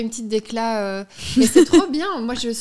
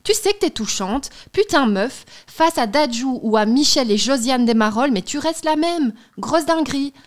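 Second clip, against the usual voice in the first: reading a love letter with flair; dramatic letter reading; 3 dB louder than usual. Acted. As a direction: perform the letter like a declaration. Reads a love letter aloud.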